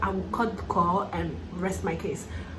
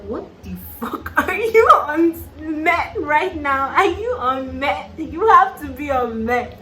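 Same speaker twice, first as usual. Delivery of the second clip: incredulous yell; 5 semitones higher, 4 dB louder than usual. Retold or imitated. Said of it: "And I was like".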